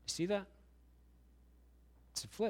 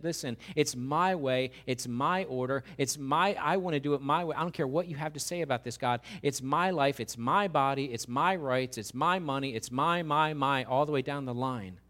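defiant. Retold or imitated. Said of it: "shaking your fist at God".

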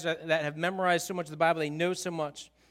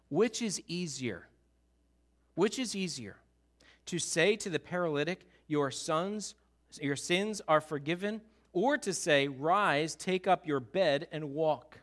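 quiet challenge; 4 semitones lower, 5 dB quieter than usual. Acted. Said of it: "said to them".

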